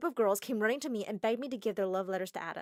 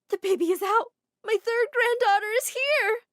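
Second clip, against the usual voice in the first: cheerful; 12 semitones higher, 8 dB louder than usual. Acted. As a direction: announce the baby with delight. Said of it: "Mom said cheerfully".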